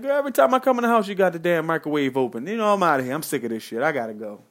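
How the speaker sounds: fast, high, loud complaint that fades out; hammed-up exit line, starts high and loud and cools off; mock fed-up rant. Partner fakes anger to leave: mock fed-up rant, fast and loud.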